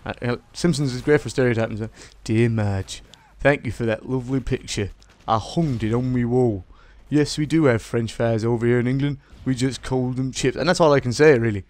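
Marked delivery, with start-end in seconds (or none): 2.2-10.6 lightly voiced English impression, measured pace; a musician. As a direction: read out a fan-mail reply in a put-on English accent. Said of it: "a musician is talking to Marge".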